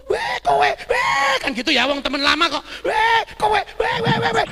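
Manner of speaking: high, loud mock shout to an old pal; excited hailing, acted out; boisterous greeting. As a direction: whoop a greeting at a long-lost friend. Imitates old friend's boisterous greeting.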